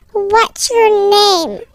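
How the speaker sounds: slow, drawn-out questioning; insistent repeat. Acted. Stranger asks an ignoring child a second time, slow and insistent. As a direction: stretch out each word to press for an answer.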